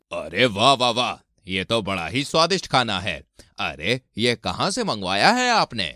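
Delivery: lightly voiced impressed dinner guest; admiring guest. Guest praises the feast to hostess, admiring. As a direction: marvel appreciatively at the food.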